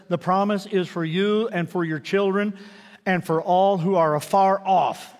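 slow, weighty scripture reading. Acted. Preacher reading Peter's promise to the crowd, slow and weighty. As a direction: let each word of the promise land. Quoting Peter's sermon slowly.

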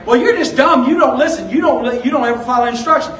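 a touch of exasperated telling-off; mock scolding. Parent scolding a child who got it wrong, mock scolding. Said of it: "you don't scold that child".

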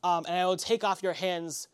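friendly merchant, pleased, haggling a little; Barfin surprised, then bargaining. Acted. Barfin haggling with travelers over the wagon, friendly.

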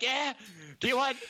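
hammed-up drunk old lady offering whipped cream; drunk grandma voice. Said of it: "she doesn't sound like that".

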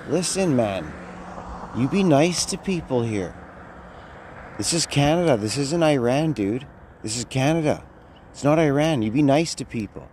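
a hint of an angry customer; retold scolding. Scolding rude cashier in retold story.

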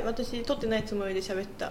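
crunching chips. Real, not acted. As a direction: mouth full of crunchy snacks. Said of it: "お菓子ボリボリ食べて".

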